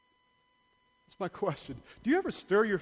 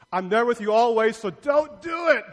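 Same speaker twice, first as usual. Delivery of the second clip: God's voice; 3 semitones higher, 6 dB louder than usual. Acted. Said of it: "That was good".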